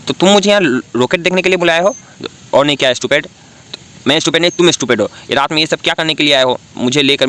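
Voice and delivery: high, quick, huffy comeback; indignant teasing. Acted. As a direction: throw 'stupid' right back at him. Bickering on the rooftop at night. (ऊँची, तेज़ चिढ़ी हुई नोकझोंक)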